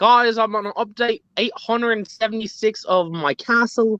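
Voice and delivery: unconvincing, bad, fake put-on British accent. Describing what Brad says every time they talk to him; imitating Brad in British accent. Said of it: "that was my British accent again".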